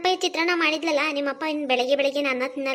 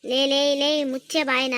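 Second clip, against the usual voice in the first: angry shout; 4 dB louder than usual. Acted. Mother-in-law silences daughter-in-law.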